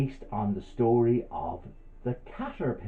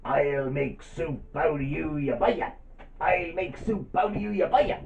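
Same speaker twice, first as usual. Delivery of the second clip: annoyed spider; 5 semitones higher than usual. Acted. Spider threatening to make soup of the butterfly, really annoyed. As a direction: draw out the threat, climbing higher the second time. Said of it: "the spider got really annoyed".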